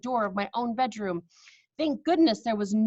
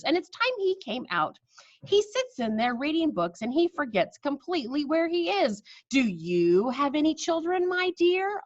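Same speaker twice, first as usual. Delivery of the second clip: put-on higher, light old lady voice; chatty grandmother; 4 semitones higher than usual. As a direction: chat innocently to fool her.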